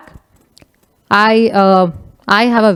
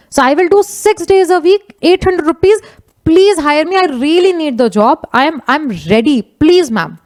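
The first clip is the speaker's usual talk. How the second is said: mildly begging, higher-pitched at first; pleading; 5 semitones higher than usual. Retold or imitated. Gardener begging a madam to hire him, pleading. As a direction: imitate an eager job seeker pleading.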